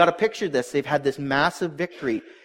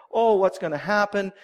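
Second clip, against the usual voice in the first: mild, higher-pitched mock lament; mock wailing; 4 semitones higher than usual. Townspeople fret over the coming attack, mildly mock-wailing. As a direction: lightly imitate worried townspeople, pitch lifted. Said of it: "people are weeping and boning and saying".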